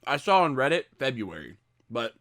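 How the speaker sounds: mumbling through a mouthful of food; mouth full. Real, not acted. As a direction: talk round a bite of food. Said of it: "Talking with his mouth full".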